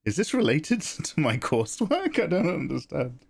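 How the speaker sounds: high-pitched, baffled retelling; high mock-confused voice; mock bewilderment. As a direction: act out baffled protest, voice pitched well up. Retells own baffled reaction to tutors.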